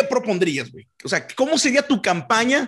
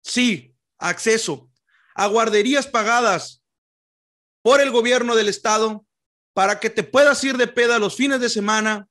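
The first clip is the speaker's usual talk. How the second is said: campaign speech voice; 2 semitones higher than usual. Pretend. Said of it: "le dan ese tonito acá".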